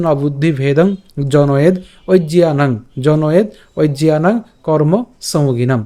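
জনয়েদ ঐজিয়ানাং slow, ending on a clipped d before oi; careful Sanskrit pronunciation. Shown as a demonstration. Teacher showing viewers the first line's pronunciation, careful recitation. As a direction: sound out নবুদ্ধি ভেদং phrase by phrase. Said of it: "উচ্চারণটা কী হচ্ছে".

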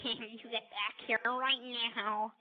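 slow, lightly voiced dark heroine; a hint of a brooding Raven. Shown as a demonstration. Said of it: "here's my Raven voice".

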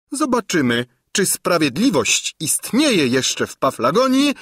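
high, loud, shrill-pitched pleading; indignant old crone. A narrator's reading. Old governess pleads to the chancellor and bishop, high and loud. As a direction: demand justice like a wronged old hag. Gburja Furia pleads her claim.

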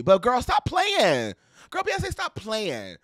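slow, drawn-out sassy call-out; sassy scolding. Real, not acted. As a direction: playfully scold her, slow. Calling out a singer playfully.

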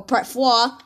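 "four" said as "faw", no R; "four" cut to an open "faw". Shown as a demonstration. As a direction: drop the R from "four". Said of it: "or just part four".

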